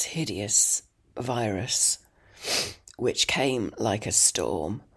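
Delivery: croaky and rough from illness; hoarse sick voice. Real, not acted. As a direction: voice wrecked by a virus. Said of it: "As you can hear, I don't sound great".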